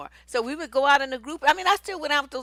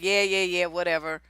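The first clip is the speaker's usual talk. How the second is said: low, offhand brush-off; mock dismissal; 4 semitones lower than usual. Partner ignoring you as they leave, mock dismissive. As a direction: imitate someone tuning you out. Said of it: "They don't pay attention to what you're talking about".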